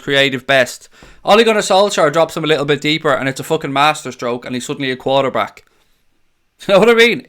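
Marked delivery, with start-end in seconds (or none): 5.7-7.2 quick laughing question; giggling you know what I mean. Real, not acted. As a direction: laugh through it, fast and high. Laughing at the tactics irony.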